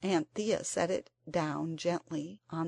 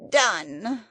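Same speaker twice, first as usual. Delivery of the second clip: loud, breathless single word; puffed-out creature; 3 semitones higher, 8 dB louder than usual. A narrator's reading. The Psammead grants Lady Chittenden's wish, puffed out. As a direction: gasp it out after effort.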